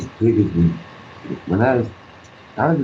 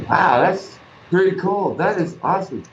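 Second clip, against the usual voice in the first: put-on higher, awed kid voice; childlike wonder; 8 semitones higher than usual. Boy seeing a bear cub, mock wonder.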